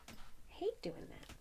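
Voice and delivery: high unvoiced whisper, slow. Real, not acted. Admitting to viewers she hates weaving ends, whispered. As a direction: whisper it like a guilty confession.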